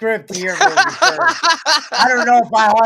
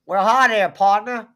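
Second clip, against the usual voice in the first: put-on southern accent. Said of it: "Why do you sound like John Wayne?".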